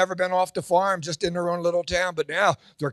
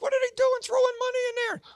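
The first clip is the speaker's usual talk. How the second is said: mock yokel; 4 dB quieter, faster than usual. Farm couple asks desk clerk.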